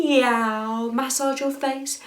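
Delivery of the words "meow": long drawn-out cat meow. Shown as a demonstration. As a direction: meow like a cat while massaging. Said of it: "meow like a cat".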